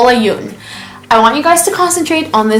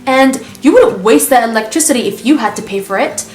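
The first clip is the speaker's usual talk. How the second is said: a higher, lightly voiced mom lecturing; imitating nagging mom; 6 semitones higher than usual. Narrator mimicking mom's money lecture, higher pitched. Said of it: "She's always saying stuff like".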